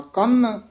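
ਕੰਨ said heavy and weighted. Shown as a demonstration. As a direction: lean hard into ਕੰਨ. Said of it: "ਭਾਰਾ ਉਚਾਰਨ ਕਰਨਾ ਹੈ". (ਕੰਨ ਭਾਰਾ ਬੋਲੋ)

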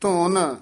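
ਧੁਨ set off with a short halt after it; brief pause. Shown as a demonstration. Teacher marks a short break, halting after ਧੁਨ. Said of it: "ਇੱਥੇ ਠਮਕ ਲਾ ਦੇਣੀ ਹੈ".

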